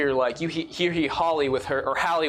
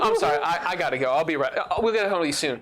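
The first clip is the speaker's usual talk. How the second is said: apologetic Ara; 2 semitones higher, faster than usual. Acted. Ara hurrying off the call with Nova. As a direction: rush the goodbye. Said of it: "Ara be like".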